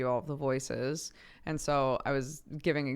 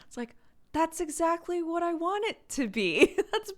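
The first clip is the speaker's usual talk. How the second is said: high, loud and gushing, through laughter; delighted squeal; 6 dB louder than usual. Real, not acted. Thrilled at being praised for her accent, squealing with laughter. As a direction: squeal with real delight at the compliment.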